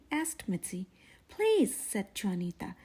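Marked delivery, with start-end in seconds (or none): 1.3-1.7 dramatic please. Acted. Juanita pleading dramatically.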